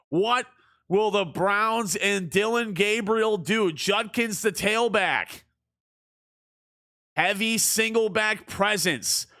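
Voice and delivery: sports commentator cadence; play-by-play call. Acted. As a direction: call the game like a broadcaster. Video game play-by-play.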